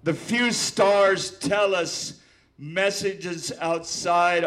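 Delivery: slow, loud dramatic poetry recital; old poet declaiming to the room; poem reading. Acted. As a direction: intone each line slowly, with long pauses. Reads his poem aloud.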